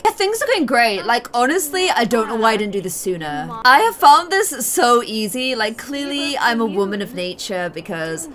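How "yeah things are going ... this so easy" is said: faking cheerful. Retold or imitated. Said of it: "she's probably just like".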